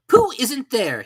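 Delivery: very high, loud, slow hoot-like greeting; a pompous owl calling from the air. A narrator's reading. Owl voiced.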